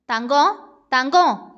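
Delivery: slow, lightly voiced tender call of a lover; remembered lover's call. Heroine recalling how Valiyan called her, slow tender echo. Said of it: "என்றானே".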